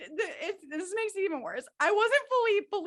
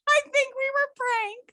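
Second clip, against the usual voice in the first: laughing; 11 semitones higher, 5 dB louder, slower than usual. Real, not acted. Realising the prank, laughing.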